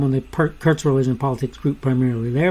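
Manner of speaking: stumbling over the words; tripping up mid-phrase, then restarting; fumbling for words. Real, not acted. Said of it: "Excuse my, my stumbling here".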